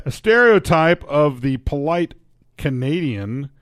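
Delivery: slow, put-on Canadian newsreader; Canadian accent. Reading the polite-Canadian story, in Canadian accent. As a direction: read it as a Canadian. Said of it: "the position of the Canadian".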